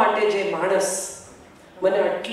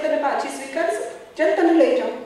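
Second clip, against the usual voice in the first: raised, light voice of a kind husband; kindly Kabir voice; 6 semitones higher than usual. Retold or imitated. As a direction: lift the voice to play the good-hearted Kabir. Kabir answers Lali in story.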